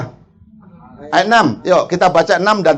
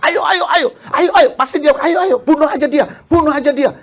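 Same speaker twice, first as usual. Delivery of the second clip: high, wheedling devil urging murder, a laugh at the start; tempting devil; 9 semitones higher than usual. Acted. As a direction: coax like a devil egging Kain on to kill. Setan membujuk Kain membunuh. (setan menggoda, suara tinggi membujuk)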